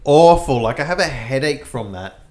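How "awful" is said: slow, pained complaint; after eating wasabi. Real, not acted. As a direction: still burning, drawn out. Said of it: "That was fucking awful".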